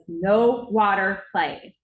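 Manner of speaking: secretary losing patience, laying down the law; stern secretary scolding. Retold or imitated. Secretary scolding Braden after slamming the faucet, loud stern and slow. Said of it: "slams the faucet off".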